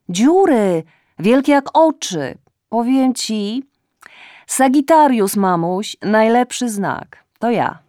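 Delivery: put-on high, loud drunken chatter; tipsy loud rambling. A narrator's reading. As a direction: babble at mother, too loud. Drunk daughter rambling on phone. (podpita córka głośno bełkocze do matki)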